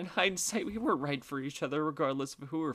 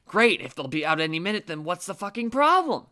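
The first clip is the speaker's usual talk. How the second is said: put-on irritated old lady; 3 semitones higher, 7 dB louder than usual. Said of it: "the old lady, gotta love her, was like".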